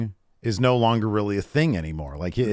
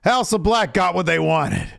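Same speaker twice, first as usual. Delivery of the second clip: mocking tone; 8 semitones higher, 4 dB louder than usual. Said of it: "they're saying".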